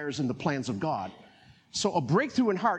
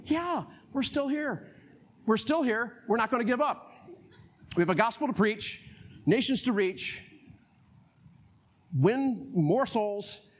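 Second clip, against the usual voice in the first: mock shocked; 4 semitones higher than usual. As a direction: act stunned that they're still here. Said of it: "almost be shocked".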